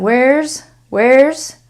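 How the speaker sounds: "Where's" ending in a voiced Z; Z sound. Shown as a demonstration. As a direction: let the s of "Where's" buzz as a Z. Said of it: "it has a Z sound".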